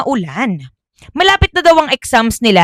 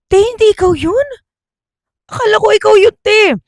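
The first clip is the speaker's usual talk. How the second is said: frightened realization; 11 semitones higher, faster than usual. Acted. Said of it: "frightened girl".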